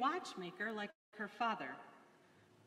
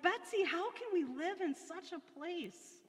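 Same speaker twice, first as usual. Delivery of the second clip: despairing; 10 semitones higher than usual. A narrator's reading. Corrie despairing over fleas.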